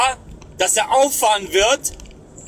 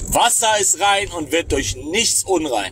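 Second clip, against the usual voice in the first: mocking repeat; 4 semitones lower, slower than usual.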